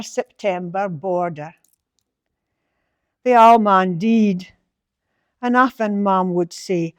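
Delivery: slow, measured Doric poem reading; poem recital. Acted. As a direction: let each line settle, unhurried. Reads Doric poem aloud.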